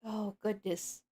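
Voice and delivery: lightly voiced determined pony; a hint of a worried leader pony; Twilight urgent. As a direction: Twilight giving orders.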